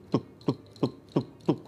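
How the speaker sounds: soft, low ticking pulse noise; imitated pulse beat. Man showing the pulse he felt, soft low imitated beats. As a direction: tap out short muted beats with the voice.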